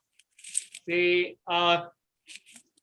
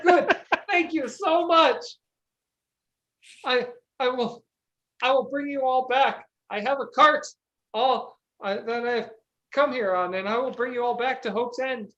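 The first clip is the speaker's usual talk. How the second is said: grateful peasant; 3 semitones higher than usual. Acted.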